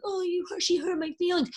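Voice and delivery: high mocking whine of a wounded ego; high, whiny mock of a touchy guy; whiny mock hurt. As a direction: mimic someone sulking over hurt feelings. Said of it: "they're like".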